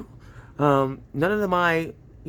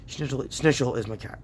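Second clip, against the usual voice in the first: talking with a pin in mouth; mouth full. Real, not acted. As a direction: speak around a pin held in the lips. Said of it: "Sorry, I had a pin in my mou".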